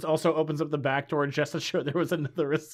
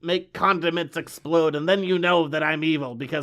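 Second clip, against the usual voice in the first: villain voice; 3 dB louder than usual. Acted. Podcaster as the villain boasting of evil, mock villain voice. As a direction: declare it like a hammy villain. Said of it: "Our villain just starts talking like this".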